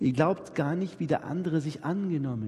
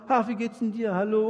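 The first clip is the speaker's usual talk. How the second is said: pushy greeting; 5 semitones higher than usual. Retold or imitated. Pushy greeter who won't listen.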